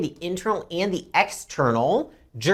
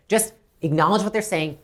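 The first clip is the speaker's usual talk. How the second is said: ordinary talk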